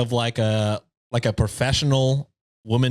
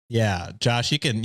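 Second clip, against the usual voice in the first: ordinary delivery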